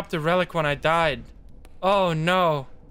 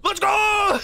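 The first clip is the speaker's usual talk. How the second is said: high, drawn-out victory yell; triumphant cheer; 4 dB louder than usual. Real, not acted. Gamer celebrating a lucky win, triumphant cheer.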